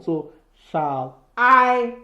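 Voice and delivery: slow, drawn-out beats; reading the meter. Shown as a demonstration. Teacher scanning Shakespeare for students, slow and stressed. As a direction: sound out each syllable's stress slowly. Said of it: "So we have an unstressed syllable".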